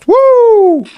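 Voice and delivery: long, high, loud "wooo"; shouted whoop. Real, not acted. Player yelling at a game chicken to make it jump, long high whoop. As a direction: hold one piercing high hoot. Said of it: "on lui crie dessus pour le faire sauter".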